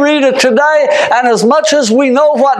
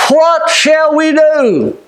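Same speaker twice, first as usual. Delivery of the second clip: urgent plea; 4 semitones higher, much slower than usual. Acted. Crowd's anguished cry in scripture.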